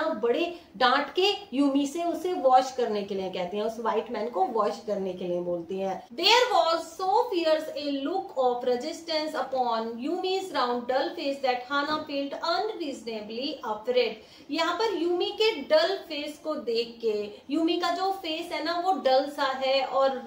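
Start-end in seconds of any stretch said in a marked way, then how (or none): 6.1-14.1 slow, careful read-aloud of the English text; deliberate classroom story reading. A narrator's reading. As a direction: read each word out slowly for the class.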